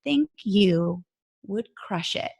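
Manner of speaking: imitated Southern voice, broken by deliberate pauses; word-by-word East Texas delivery; East Texas accent. Coach looks the recruit dead in the face, East Texas accent. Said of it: "I'm gonna do an accent for y'all".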